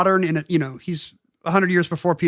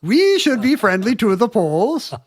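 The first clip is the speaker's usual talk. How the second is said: put-on Polish accent; 5 semitones higher than usual. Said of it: "in a thick Polish accent".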